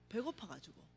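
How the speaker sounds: quiet repeat of 배고파가지고; soft echo. Real, not acted. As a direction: let the repeat of 배고파가지고 fade to a murmur.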